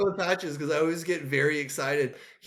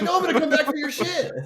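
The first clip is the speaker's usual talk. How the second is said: mocking Patches voice; 9 semitones higher, 4 dB louder than usual. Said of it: "And he's like".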